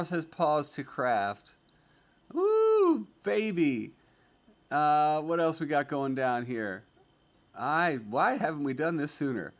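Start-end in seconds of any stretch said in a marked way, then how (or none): 2.3-3.9 high, loud whoop of joy; excited whoop. Real, not acted. Streamer cheering a viewer's new kitten, loud whoop.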